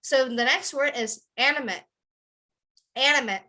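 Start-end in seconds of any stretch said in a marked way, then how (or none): 1.4-3.4 animate as AN-ih-mit; short weak last vowel in animate; adjective ending on t. Shown as a demonstration. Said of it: "But if it's a verb".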